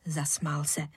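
usual speaking voice

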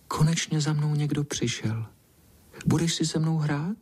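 a lightly voiced timid cat, high and gentle; shy soft voice. A narrator's reading. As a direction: ask hopefully, a little shy. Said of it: "tím hebkým hláskem plaše povídá".

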